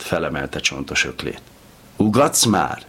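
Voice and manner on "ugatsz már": higher, shrieking question; furious high shriek. A narrator's reading. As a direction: shriek it at him in outrage. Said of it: "sikította".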